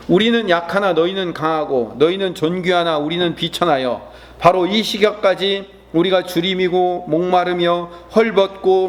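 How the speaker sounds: measured, even-pitched Bible reading; scripture reading. Acted. Preacher reading Paul's letter with the congregation, solemn recitation. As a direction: lead a congregation through the passage, evenly.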